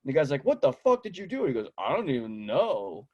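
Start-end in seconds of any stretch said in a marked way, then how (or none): 0.4-1.4 high-pitched imitated disbelief; mock outrage. Smoke victim confronting the kid, mock outrage. 1.8-3.1 slow, drawn-out mock cluelessness; feigned innocence. Prankster kid denying blame to the victim, feigned innocence.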